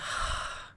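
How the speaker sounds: long deflated sigh; heavy exhale of dismay; weary sigh. Retold or imitated. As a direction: let the air out, defeated. Dismay at having to restart.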